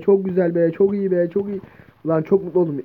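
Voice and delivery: high, happy praise; delighted. Real, not acted. Player thrilled with the loot, happy and high. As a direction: gush with joy.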